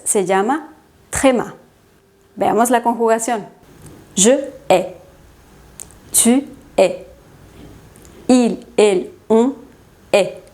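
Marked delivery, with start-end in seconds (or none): 4.2-10.4 "hais" and "hait" said as a single E vowel. Shown as a demonstration. Teacher conjugating haïr for students, "hais" pronounced as plain E. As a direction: say "hais", "hait" as one open E, no I sound. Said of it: "la pronunciación es E".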